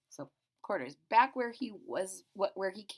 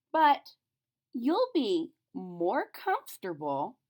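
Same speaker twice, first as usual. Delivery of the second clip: put-on girl voice; 3 semitones higher, 5 dB louder, slower than usual. A narrator's reading. Lisa voiced in story.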